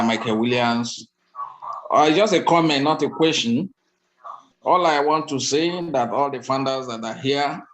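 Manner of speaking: ordinary delivery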